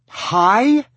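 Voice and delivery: high, very loud, outraged shout; angry shout. Acted. Lizzie echoes Tristan's greeting, shouting in outrage. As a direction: shout it back as a furious question. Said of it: "she shouted".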